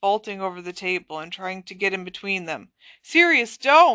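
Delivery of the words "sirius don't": shouted at full force, loud and high-pitched. Harry tries to get between two people, yelling at Sirius. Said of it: "Harry yelled".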